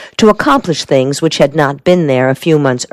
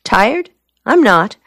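higher, questioning mild surprise; surprised; 6 semitones higher, slower than usual. A narrator's reading. Soldier answers her remark on his looks, surprised. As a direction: query it, then deny it. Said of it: "He seemed surprised".

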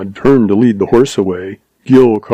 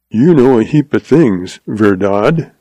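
mildly tart question. Acted. Young visitor questions the old rancher, tartly. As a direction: put a touch of tartness in it. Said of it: "inquired Gil tartly".

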